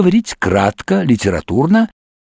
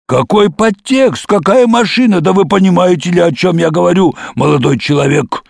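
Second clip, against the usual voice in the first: put-on agitated very old man; 3 semitones higher than usual.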